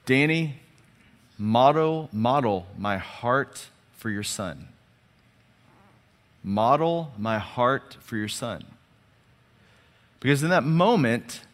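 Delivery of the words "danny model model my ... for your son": God's voice. Retold or imitated. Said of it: "almost as if he audibly said this".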